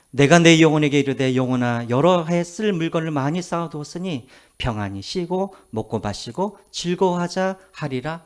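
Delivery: even-toned Bible recitation; scripture reading. Acted. Preacher quoting a parable to the congregation, in steady recitation. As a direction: recite the verse steadily, drawing out the close.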